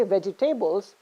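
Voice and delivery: vegetables as vegi-TAY-bles; weight the TAY in vegetables; stress on third syllable. Shown as a demonstration. Teacher pointing out the mistake, vegetables as vegi-TAY-bles. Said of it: "you're stressing again".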